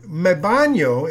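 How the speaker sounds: "me baño" spelled out slowly, Spanish ñ; slowed teaching example; slow demo. Shown as a demonstration. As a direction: lay out "me baño" slowly for the class. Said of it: "is how they say it in Spanish".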